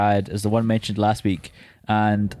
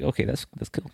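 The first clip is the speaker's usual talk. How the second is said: mock casual; 8 dB quieter than usual. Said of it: "I was like".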